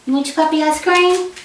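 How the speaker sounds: sweet pet-owner voice, lifted in pitch; doggy talk. Real, not acted. Talking sweetly to her dog.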